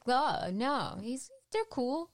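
high, breezy mock husband; a hint of a careless husband; dismissive husband. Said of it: "he's like".

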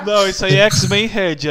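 loud. Acted. Loud mock protest.

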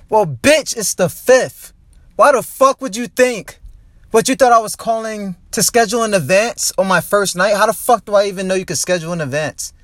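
venting real anger at the bar; real frustrated outburst; angry rant. Real, not acted. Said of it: "I'm so fucking mad".

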